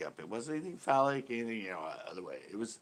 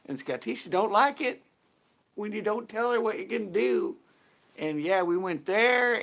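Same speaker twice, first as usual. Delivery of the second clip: Skatisha; 4 semitones higher than usual. Acted. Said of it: "Skatisha talks in third person".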